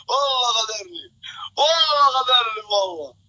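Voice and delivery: high, wailing outcry; cry of betrayal. Real, not acted. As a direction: wail it out to the team. Cries out that he's betrayed. (صراخ استغاثة عالٍ)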